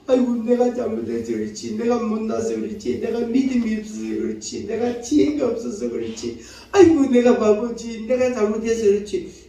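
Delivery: monotone self-blaming lament; mock-lament your own faults in a sing-song list; self-reproach. Preacher acts out someone blaming himself, self-reproach. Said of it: "이렇게 자책을 하면 할수록".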